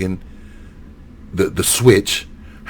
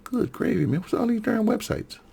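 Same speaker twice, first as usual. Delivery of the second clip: exasperated mutter; 14 semitones higher, 7 dB quieter than usual. Real, not acted. Frustrated while searching websites.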